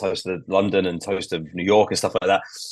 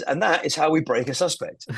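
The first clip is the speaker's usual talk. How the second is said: teacher voice; 5 semitones higher than usual. Retold or imitated. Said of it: "talking to a class full of kids and says".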